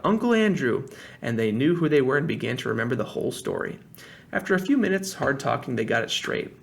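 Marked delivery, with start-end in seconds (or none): 0.0-0.8 higher, louder shout of recognition. A narrator's reading. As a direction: blurt out the name. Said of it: "he shouted out".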